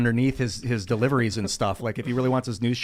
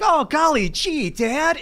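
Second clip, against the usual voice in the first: put-on much higher, slow, wholesome old-timey kid; golly-gee fifties sitcom voice, pitched way up; nineteen fifties voice; 14 semitones higher, 4 dB louder, much slower than usual. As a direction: gush it like a fifties sitcom son. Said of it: "they would always talk like this".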